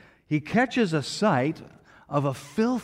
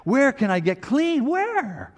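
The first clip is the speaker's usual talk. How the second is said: rising desperate cry, higher and louder; 9 semitones higher, 3 dB louder than usual. Acted. Sinner seeing himself in the mirror crying out for washing. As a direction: plead louder and higher each time. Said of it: "it should make us cry out".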